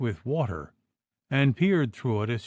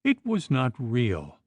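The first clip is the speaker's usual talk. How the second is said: anguished plea; 7 semitones higher than usual. A narrator's reading. Wife pleading with husband's ghost.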